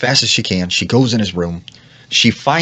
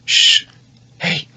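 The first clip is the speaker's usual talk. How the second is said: hushed beckoning. Acted. Unseen voice beckons from under bed.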